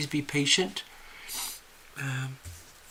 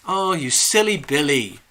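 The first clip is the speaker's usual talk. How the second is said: a touch of fond British teasing, a bit louder; affectionate teasing; 4 dB louder than usual. Retold or imitated. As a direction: gently tease a friend being daft. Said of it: "So the way they would say that was".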